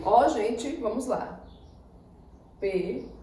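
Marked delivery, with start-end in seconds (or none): 2.6-3.1 "Período" in separate syllables with long pauses; syllable separation. Shown as a demonstration. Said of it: "basta fazer a separação silábica". ("Período" em separação silábica, com pausas longas)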